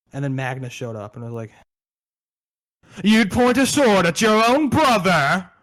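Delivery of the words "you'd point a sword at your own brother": louder, higher and slow, theatrical outrage; mock-dramatic, loud reproach; hammed-up accusation. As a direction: shout it like a wounded brother in a melodrama. Magnus confronting Gilliman.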